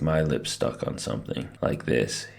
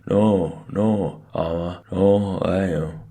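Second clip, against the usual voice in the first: loud, higher muffled wail; mumbled panic; 4 semitones higher, 6 dB louder, slower than usual. A narrator's reading. Stuck boy going nuts at being pulled off, mumbled wail. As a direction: mumble loudly through stuck lips. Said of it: "and mumbling".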